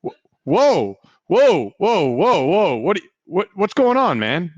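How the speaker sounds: high, loud frightened whoa; alarmed. Acted. Worker facing a drawn pistol, high and frightened. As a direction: back away from the gun.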